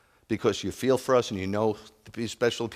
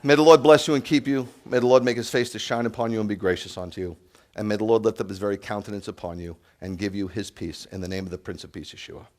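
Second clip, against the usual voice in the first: benediction; 3 dB louder than usual. Acted. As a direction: bless the congregation, warm and solemn. Pronounces the blessing.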